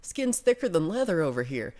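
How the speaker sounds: punched-up Texas-via-Colorado accent. Shown as a demonstration. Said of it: "If I just say it, like, in Colorado, Texas accent".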